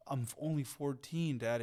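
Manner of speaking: lightly mimicked teenage backtalk; a touch of mockery, imitating a kid; mocking teen son. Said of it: "this weird mocking thing".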